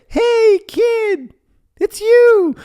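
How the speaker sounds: very high, loud joyful cry; overjoyed dad. Retold or imitated. Forgetful dad welcoming his son back, overjoyed. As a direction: greet him like a long-lost son. Dad greeting him once more.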